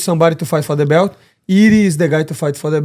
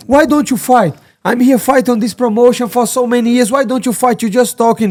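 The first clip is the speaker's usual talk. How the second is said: higher, heated challenge; Mike Perry impression; 6 semitones higher than usual. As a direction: call him out, fired up. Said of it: "fucking Mike Perry starts".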